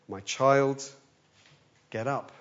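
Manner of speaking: gentle as waking a daughter; tender, gentle. Retold or imitated. Jesus to the dead girl, tender and gentle. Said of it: "tender, gentle scene".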